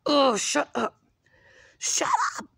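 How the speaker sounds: high, shouted mock scolding; mock angry yell. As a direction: yell it at a noisy kid. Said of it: "I'm like".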